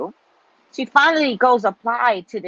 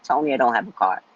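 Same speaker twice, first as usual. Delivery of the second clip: annoyed; 8 semitones lower, faster than usual. Retold or imitated. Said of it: "I get very annoyed easily".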